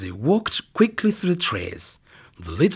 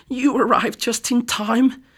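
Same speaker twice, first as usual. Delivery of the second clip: murmur; 11 semitones higher than usual. Acted. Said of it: "murmured the old lady".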